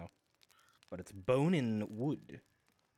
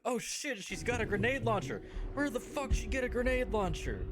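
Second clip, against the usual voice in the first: high, frantic panicked goon; panicked enemy; 14 semitones higher, 4 dB louder than usual. Retold or imitated. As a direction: squeal it like a terrified henchman. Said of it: "the enemy's reckoning with".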